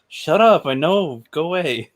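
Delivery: put-on high bratty kid; whiny kid voice. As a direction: whine it like a little kid. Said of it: "He sounded like a kid".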